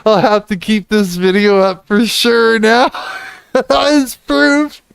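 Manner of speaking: amused, breaking into high laughter; laughing. Real, not acted. Streamer keeping the video as proof, laughing. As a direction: giggle into the last words.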